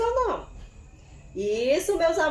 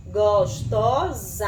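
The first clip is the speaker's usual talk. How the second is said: syllable by syllable; 4 dB louder, much slower than usual. Shown as a demonstration. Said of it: "Olha o som que saiu no final".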